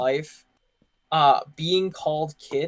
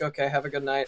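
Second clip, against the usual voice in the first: understated, drained sign-off, a little softer; dead inside; 2 semitones lower, 5 dB quieter, faster than usual. Retold or imitated. Ending a call with an angry customer, dead inside. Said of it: "I was just dead inside".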